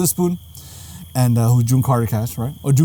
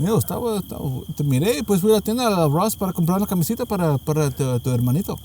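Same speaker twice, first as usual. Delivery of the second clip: Mexican mom; 3 semitones higher, 4 dB quieter, faster than usual. Retold or imitated. Acted parent excuse in Spanish.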